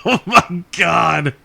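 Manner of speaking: slow, laughing oh my God; slow laughing delight. Real, not acted. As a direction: melt into laughter. Laughing after the joke.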